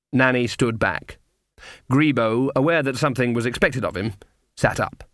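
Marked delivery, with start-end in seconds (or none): none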